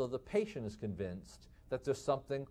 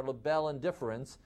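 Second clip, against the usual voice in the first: plain American Midwestern pronunciation; anglicized, everyday Midwestern accent. Shown as a demonstration. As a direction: say the French term in a Midwestern accent. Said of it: "in my Midwestern accent".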